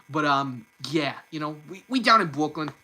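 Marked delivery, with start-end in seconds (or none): 1.7-2.7 a stereotypical New Yorker, lightly done; attempted Brooklyn accent. Shown as a demonstration. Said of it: "a Brooklyn accent".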